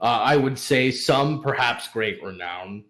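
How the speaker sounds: lightly voiced self-important, eager host; pompous merchant. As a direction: preen a little, then play the generous host. Plays vain merchant flattered, offering wine.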